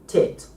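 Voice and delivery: "tit" with a strong puff of air on the T; aspirated T demo. Shown as a demonstration. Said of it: "Now say".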